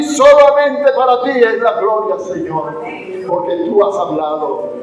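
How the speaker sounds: measured public prayer in long phrases; earnest prayer. Real, not acted. Preacher thanking God for the morning's word, earnest prayer. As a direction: give thanks to God before the congregation.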